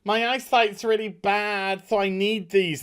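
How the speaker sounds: a hint of fake innocence; lightly voiced girl. Girl excusing her goggles, mildly high innocent voice. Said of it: "she's just like".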